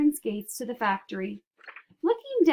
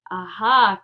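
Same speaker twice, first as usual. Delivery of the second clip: mischievous cry; 2 semitones lower, 10 dB louder than usual. Acted. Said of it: "cried Wonka".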